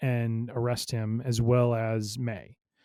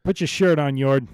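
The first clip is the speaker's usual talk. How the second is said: louder playful scold; 2 semitones higher, 6 dB louder than usual. Pretend. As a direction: tell him off, half joking. Joke order to Yord.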